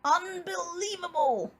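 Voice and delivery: rumbling. A narrator's reading. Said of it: "rumbled Bear".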